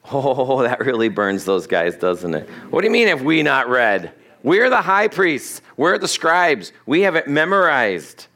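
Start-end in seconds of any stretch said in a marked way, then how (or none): 2.7-8.3 indignant priests. Retold or imitated. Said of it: "voicing offended priests".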